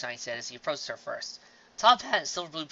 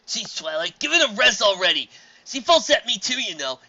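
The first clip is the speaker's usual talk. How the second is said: exasperated; 9 semitones higher, 12 dB louder than usual. Acted. Spike telling Twilight to stop.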